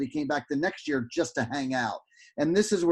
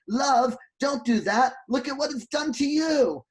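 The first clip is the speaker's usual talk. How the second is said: gentle scolding; 8 semitones higher than usual. Retold or imitated. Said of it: "and he goes".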